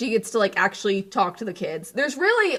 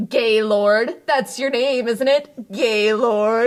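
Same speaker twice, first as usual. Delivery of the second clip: pitched-up mock announcing of a name; John Mulaney impression; 2 semitones higher, 4 dB louder, much slower than usual. Retelling a comedy sketch to a co-host, lightly voiced comedian. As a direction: quote a comedian's sketch bit, a little louder. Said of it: "John Mulaney goes".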